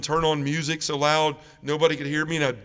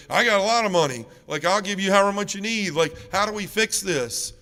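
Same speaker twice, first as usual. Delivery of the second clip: retold frantic yelling; 5 semitones higher than usual. Son demanding the doctor fix it, retold frantic yelling. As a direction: imitate a raised-voice outburst at the doctor. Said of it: "I was doing the same thing".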